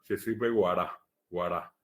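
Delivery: "sesipe guará" said with an oral g, as the mistake; wrong form. Shown as a demonstration. Teacher showing the class the incorrect form. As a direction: show the wrong "guará" with a hard g. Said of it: "es incorrecto decir sesipe guará".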